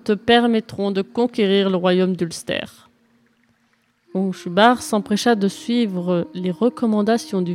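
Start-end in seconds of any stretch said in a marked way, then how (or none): 0.0-2.9 put-on a raised, solemn old druid; old druid's voice. Old druid instructing the young knight, solemn raised voice. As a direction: proclaim it like a wise old druid. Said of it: "lui répondit le druide".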